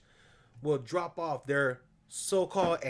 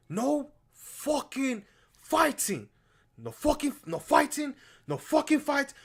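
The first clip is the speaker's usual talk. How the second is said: put-on Peaky Blinders accent; 10 semitones higher, slower than usual. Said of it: "He's like".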